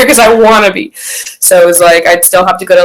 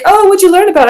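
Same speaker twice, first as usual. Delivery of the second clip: imitating church friends; 11 semitones higher, faster than usual.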